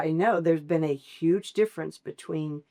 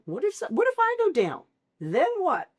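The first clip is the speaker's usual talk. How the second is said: high, frantic what-if voice; mock panicked worry; 7 semitones higher than usual. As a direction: spiral into a comic panic about everything falling apart. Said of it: "I think all the time".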